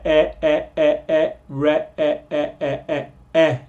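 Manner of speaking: e as in bread, pulled out alone; isolated e vowel. Shown as a demonstration. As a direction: stretch the vowel e on its own. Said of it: "Es el mismo bre".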